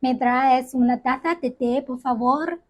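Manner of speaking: "té" said in Spanish inside a casual request; Spanish sentence. Shown as a demonstration. Demonstrating Spanish tea in a café request. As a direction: ask for a cup of tea in Spanish. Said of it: "the Spanish pronunciation of tea".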